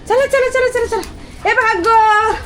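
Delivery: high, loud shooing calls; shooing animals off the terrace. Real, not acted. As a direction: chase them off with quick calls.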